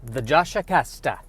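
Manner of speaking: a light, hammed-up fake Italian accent; bad Italian accent. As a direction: open the show in a mock Italian lilt. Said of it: "doing a bad, uh, Italian, uh, accent".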